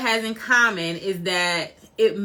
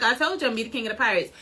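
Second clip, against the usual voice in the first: nonchalant; 4 dB quieter, much faster than usual. Retold or imitated. Fan acting out Luffy after showing his powers, nonchalant. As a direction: toss it off quickly, unbothered. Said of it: "super chill and so nonchalant".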